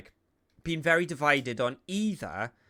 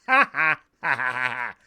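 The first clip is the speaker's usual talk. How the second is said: fake laugh; 2 semitones lower, 8 dB louder than usual. Mock laugh at bad news.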